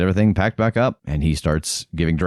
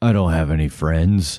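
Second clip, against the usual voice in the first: deep put-on talking bear voice. Voicing a bear answering a call from the woods: talking bear voice. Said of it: "call out to the bear in bear language".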